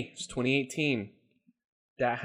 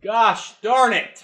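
high, slow, louder hammed-up groan; mock exasperation; 8 semitones higher, 7 dB louder, much slower than usual. Host groaning at the sexism question, hammed up. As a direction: drag it out like a cartoon complaint.

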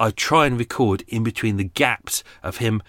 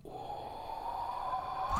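muttered curse; 20 dB quieter, much slower than usual. Real, not acted. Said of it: "I'm gonna kill someone".

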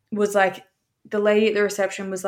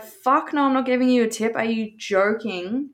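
indignant refusal; 3 semitones higher than usual. Retold or imitated. Retelling her refusal to tip the driver, indignant.

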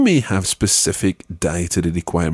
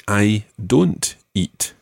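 slow prompt; much slower than usual. Shown as a demonstration. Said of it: "how would you say".

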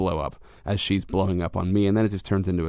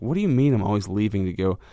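irritated retort. Retold or imitated. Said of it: "immediately sparked irritation".

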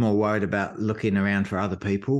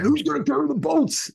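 shouted slogan. Retold or imitated. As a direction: yell it to the sign-holder as you pass. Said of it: "I went".

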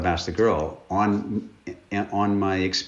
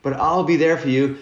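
high, loud blubbering plea; hammed-up sobbing promise from a dorky kid; mock crying nerd; 7 semitones higher, 4 dB louder than usual. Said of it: "he's crying with his braces like this".

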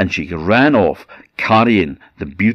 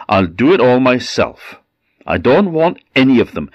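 raised, brisk and stubborn; defiant refusal; 5 semitones higher, 4 dB louder than usual. Acted. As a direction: brush off the help. Tatterhood refuses crew.

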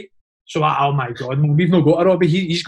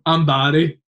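monotone; 5 semitones lower, slower than usual. Retold or imitated.

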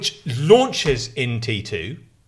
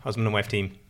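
American radio voice; 5 semitones lower, 4 dB quieter than usual. Pretend. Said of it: "your impersonation".

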